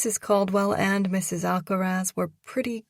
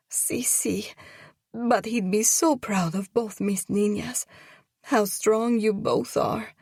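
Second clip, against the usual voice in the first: put-on Spanish-accented mother; 3 semitones higher than usual. Tearful mother praises the two girls.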